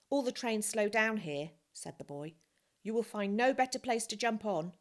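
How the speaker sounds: put-on a lively boy calling out. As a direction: call it out eagerly. Boy calling advice to Joseph.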